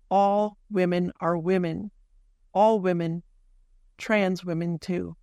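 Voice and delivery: measured, emphatic essay read; scripted closing statement. Acted. Host summing up what Barbie is a story of, scripted closing statement. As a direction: deliver a prepared summation, pausing for weight at the end.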